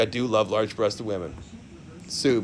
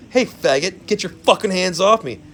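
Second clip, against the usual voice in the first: angry yell quote; 5 semitones higher, 6 dB louder than usual. Retold or imitated. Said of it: "Or else it's like".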